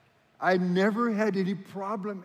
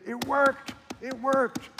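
high, louder cry of success; elated report; 9 semitones higher, 4 dB louder, slower than usual. Retold or imitated. Man writing back to the preacher that the advice worked, elated. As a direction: exclaim it twice with rising excitement.

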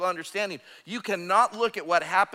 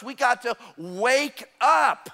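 rousing call; 4 semitones higher, 4 dB louder, slower than usual. Real, not acted. Preacher rousing the congregation.

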